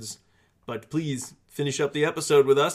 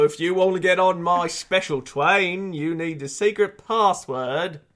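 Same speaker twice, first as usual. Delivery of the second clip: gatekeeper voice; 4 semitones higher, 4 dB louder than usual. Pretend. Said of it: "I'll stop".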